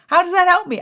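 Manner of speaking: high, loud exasperated question. Retold or imitated. Complaining about his useless text, high loud exasperation. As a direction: demand an answer, fed up. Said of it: "I was so mad at him".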